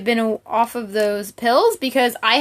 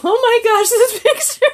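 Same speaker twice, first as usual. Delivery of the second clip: laughing out loud; 12 semitones higher, 5 dB louder than usual. Real, not acted. Laughing at a picture in book.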